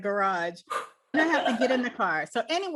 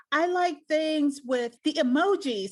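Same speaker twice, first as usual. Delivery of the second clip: put-on animated child; 5 semitones higher, slower than usual. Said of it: "So she got so animated".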